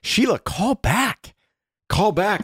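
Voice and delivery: high, slow mock call to a caller. Calling out to voicemail caller.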